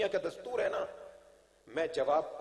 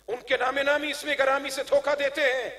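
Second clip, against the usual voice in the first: higher, sustained declamation; raised sermon voice; forceful preaching; 8 semitones higher, 7 dB louder than usual. Real, not acted. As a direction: press it on the congregation. Preaches to a crowd.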